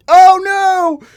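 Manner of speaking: high, loud panicked yelp. Retold or imitated. Guy who dropped a friend's joint yelps in panic, high and loud. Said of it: "That was, like, verbatim how I sounded".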